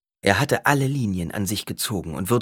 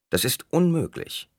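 high, indignant refusal; 8 semitones higher than usual. A narrator's reading. Doctor refusing.

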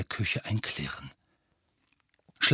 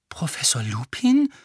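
disbelieving; 3 semitones higher, 4 dB louder than usual. Acted. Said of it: "sagte er ungläubig".

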